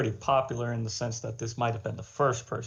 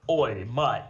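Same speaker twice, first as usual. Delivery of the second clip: louder, broad pretend-Australian hail; mock Australian accent; 5 dB louder than usual. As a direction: call out in a hammed-up Australian accent. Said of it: "like, an Australian accent".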